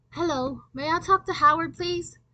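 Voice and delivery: high, polite disguised phone voice. Acted. The speaker prank-calling Howard's mother, in disguise. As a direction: put on a sweet fake caller voice. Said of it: "I disguised my voice".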